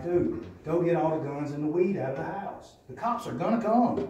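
urgent, rising pitch, pressing the friend to clear the house; bleeding on the floor, telling Brandon to hide the guns, urgently; urgent warning. Retold or imitated. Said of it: "and I'm like".

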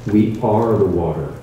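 understated choked-up quote; mild tearful retelling. Retold or imitated. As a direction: echo his awe as if close to tears. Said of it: "now he's crying in front of five hundred people".

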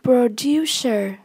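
"Producer" stressed on DU; light pro, weighted DU in "Producer"; stress on second syllable. Shown as a demonstration. Teacher modelling vocabulary for learners, "Producer" stressed on DU. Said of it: "nhấn âm, âm hai".

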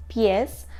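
Піс with a Polish i sound, not пес; teacher correcting пес to Піс; Polish pronunciation. Shown as a demonstration. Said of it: "польською мовою тільки не пес, а піс".

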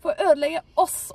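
high, loud shriek; possessed woman screaming. Retold or imitated. Possessed woman shrieking at the unwanted visitor. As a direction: fling the threat out as a scream. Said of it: "hun skreik til meg og sa".

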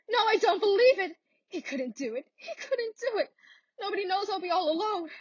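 high, sobbing denial; crying disbelief. Acted. Stunned wife crying over Albert's telegram, high and sobbing. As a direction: cry out that it can't be true.

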